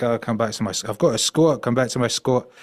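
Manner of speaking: half-hearted go at Northern Irish; badly faked Northern Irish accent; attempted Northern Irish accent. Punk invites him back to the squat, attempted Northern Irish accent. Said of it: "I can't do the Northern Irish".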